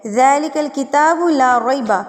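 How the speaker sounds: measured Arabic verse reading; Quran verse reading. Shown as a demonstration. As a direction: read the verse out carefully. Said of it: "اب یہاں پر دیکھیں".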